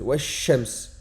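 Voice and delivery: Wash-shams avec le sh doublé; shadda sur sh. Shown as a demonstration. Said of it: "on ajoutera une shadda". (shadda marquée)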